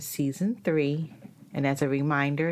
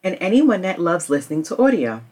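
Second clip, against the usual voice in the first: louder promotional read; sponsor ad read; 3 semitones higher, 7 dB louder than usual. Acted. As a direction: pitch the service like a podcast host.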